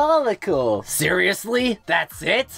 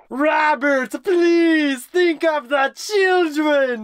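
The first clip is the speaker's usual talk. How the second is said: pleading shout; 5 semitones higher, slower than usual. Acted. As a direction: beg him at full volume. Pleading with Robert.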